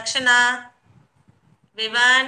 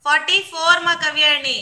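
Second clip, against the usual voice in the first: slightly raised teacher voice; speaking louder; 3 dB louder than usual. Real, not acted. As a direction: speak up a little for the class. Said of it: "I'll try to speak louder".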